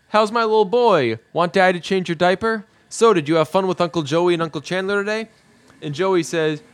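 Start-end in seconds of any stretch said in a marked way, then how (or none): 0.1-5.3 lightly imitated dad-to-baby talk, higher pitched; doting dad. Ross greeting his little boy, lightly doting. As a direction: talk sweetly upward to a baby.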